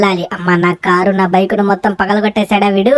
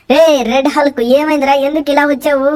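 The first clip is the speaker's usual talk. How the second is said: shocked at the wrecked car; high-pitched dismay at the destruction; 6 semitones higher than usual. Acted.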